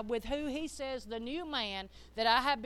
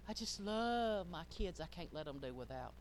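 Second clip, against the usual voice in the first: mock doting parent; 4 semitones lower, 5 dB quieter than usual. Mimics an over-soft doting parent.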